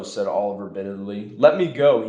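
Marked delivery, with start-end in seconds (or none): 1.4-2.1 pleading, higher and louder; desperate plea to be freed; begging. Acted. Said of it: "he begged".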